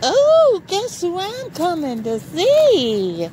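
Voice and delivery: light up as you spot the dog; excited greeting. Real, not acted. Greeting her dog Jake, delighted and high-pitched.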